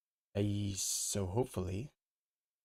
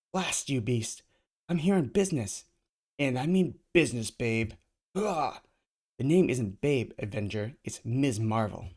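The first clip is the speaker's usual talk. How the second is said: annoyed heroine; 4 dB louder than usual. Acted. Ms. Marvel annoyed.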